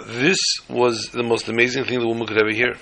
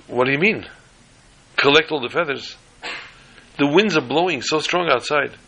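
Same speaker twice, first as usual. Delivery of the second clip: flabbergasted; 5 semitones higher than usual. Acted. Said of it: "She was flabbergasted".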